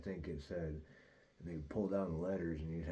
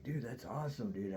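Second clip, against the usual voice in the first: retold starstruck excitement, higher pitch; excited; 5 semitones higher than usual. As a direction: act out being thrilled to meet someone. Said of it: "I got all excited".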